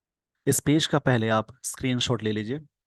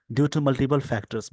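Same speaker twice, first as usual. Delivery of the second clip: slow dictation; much slower than usual. Shown as a demonstration. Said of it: "slow dictation reading".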